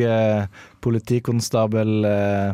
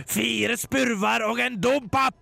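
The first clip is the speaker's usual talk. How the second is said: shouting Stian; 13 semitones higher than usual. Acted. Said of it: "ropte Stian så høyt han kunne".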